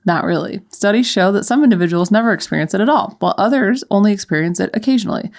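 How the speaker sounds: brisk, even reading voice; article read-aloud. Real, not acted. Podcaster resumes the article for co-host, read-aloud.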